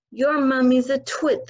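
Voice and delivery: loud, scornful bellow. Acted. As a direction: bellow the insult down at her. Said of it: "the Trunchbull bellowed".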